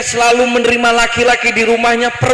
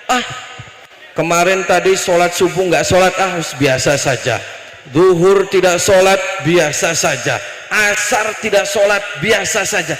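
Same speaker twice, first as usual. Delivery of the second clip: dismissive nonchalance; 3 semitones lower than usual. Acted. Preacher voicing people who skip prayers, dismissive. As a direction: let each excuse drop away casually. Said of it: "Kadang orang itu selalu meremehkan".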